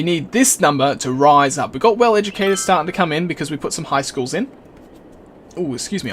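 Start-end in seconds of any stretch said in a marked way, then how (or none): 5.6-6.1 hiccups. Real, not acted. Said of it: "I've got the hiccups at the moment".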